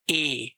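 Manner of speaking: ए said as a clear e, not English ee; ए spoken as an open e vowel; German e sound. Shown as a demonstration. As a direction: say ए like the e in bed. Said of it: "इसको ए पढ़ा जाता है".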